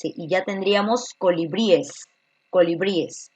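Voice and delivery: colibríes with the ending es clearly spoken; teacher models colibríes, stressing the final es; correct plural colibríes. Shown as a demonstration. Teacher modelling the right plural, colibríes spelled out clearly. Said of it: "añadirle tanto la E como la S".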